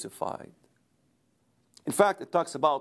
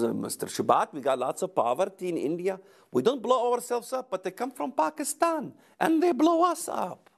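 imitated Indian accent climbing much higher; 6 semitones higher than usual. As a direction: play an Indian student, growing high-pitched in protest. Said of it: "You know how that Indian accent again".

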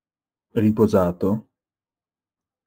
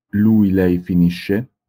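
slow and loud, each word set apart; slow classroom model of Lui, lei finisce; slow model reading; 4 dB louder, slower than usual. Shown as a demonstration. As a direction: read it slowly for the class to repeat. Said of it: "teacher models the present form".

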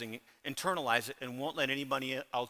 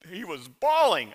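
imitating wife's teasing; 2 semitones higher, 8 dB louder than usual. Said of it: "Her definition of".

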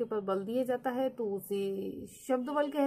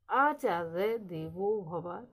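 आचार्य देवो भव with the first आ held long and pushed hard; slow demo with heavy force on आ; stress on आ; 3 semitones lower, much slower than usual. Shown as a demonstration. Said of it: "आ पर ज्यादा force डाला जा रहा".

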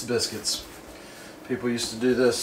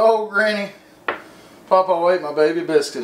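high, loud little-boy wail, acted for fun; imitating crying little boy; 6 semitones higher, 5 dB louder than usual. Small boy to his granny about his stolen biscuit, mock crying. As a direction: whine it like a small boy who lost his treat. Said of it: "And I cried and I was like".

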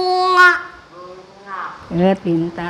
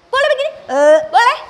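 "Boleh begini?" asked higher, modelling the wrong way; mock wrong mouth; 3 semitones higher, much faster than usual. Shown as a demonstration. Teacher shows the wrong small-mouth way, higher. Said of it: "Tidak boleh".

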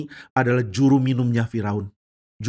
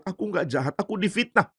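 mildly shocked self-defence; a touch of alarmed pleading; startled denial; 4 semitones higher, 3 dB quieter than usual. Acted. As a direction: protest innocence, pitch rising. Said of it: "Yusuf kaget".

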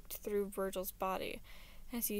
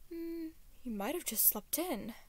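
higher-pitched, half-hearted suggestion; 6 semitones higher than usual. A narrator's reading. Prince suggesting where the missing friend is, half-heartedly. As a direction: offer it without much conviction. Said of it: "the prince suggested half-heartedly".

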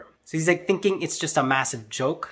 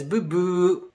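a higher "boo boo" buzzer noise; imitated wrong-answer buzzer; 4 semitones higher than usual. Teacher rejecting a student's answer, buzzer imitation. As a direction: mimic a teacher's error signal. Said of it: "makes an X with his fingers and says".

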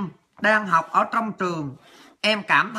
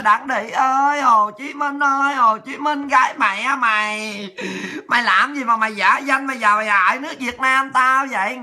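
hammed-up crying wail, higher and calling out; mock wailing lament; 3 semitones higher than usual. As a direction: fake a dramatic sobbing lament to mock them. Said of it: "Đó, chị khóc rồi đó". (giả khóc than lóc, kêu gào chế giễu)

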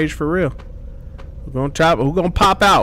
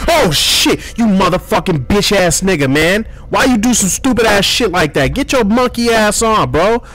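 angry outburst; 3 semitones higher than usual. Real, not acted. Startled by a man popping out.

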